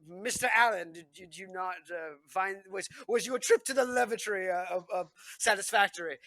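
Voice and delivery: a hint of a prim English gentleman, rising on lavatory; mock British host. British hosts quizzing Allen in mild mock-posh voice. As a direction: ask with fake politeness, like a smug lord. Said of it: "they're like".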